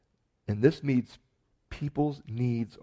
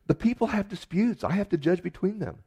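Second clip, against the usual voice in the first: higher-pitched protesting reply; acted-out justification in a raised pitch; Moses explaining himself; 8 semitones higher, 5 dB louder than usual. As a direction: voice a defensive answer, pitched up. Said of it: "And Moses just says".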